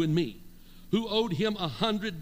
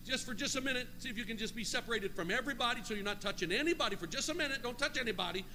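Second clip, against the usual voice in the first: softer, higher, quick instruction; quiet aside; 4 semitones higher, 5 dB quieter, faster than usual. Real, not acted. Preacher asking congregation to separate, softer aside. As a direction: drop the volume to instruct the room.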